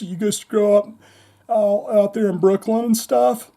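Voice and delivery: lightly imitating the radio host; Eddie Trunk voice. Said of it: "Eddie says".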